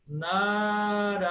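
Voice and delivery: Narayana slowly, first two syllables long; classical Narayana. Shown as a demonstration. Teacher summing up long and short vowels. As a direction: hold the first two, clip the last two. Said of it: "dois longos e dois breves".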